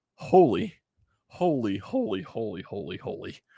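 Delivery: words spilling out through uncontrollable laughter. Recapping a ball game for viewers: can't stop laughing. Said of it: "I can't stop laughing".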